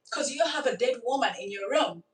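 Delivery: said through a laugh; amused disbelief with laughter. Real, not acted. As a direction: chuckle through the line. Laughs at the absurd situation.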